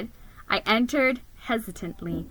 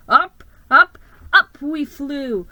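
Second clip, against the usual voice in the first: excited; 4 semitones higher, 8 dB louder than usual. A narrator's reading. Sleigh takes off into sky.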